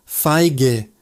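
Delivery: Feige in two clear syllables, "fy-geh"; I sound, soft G. Shown as a demonstration. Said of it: "A makes an I sound".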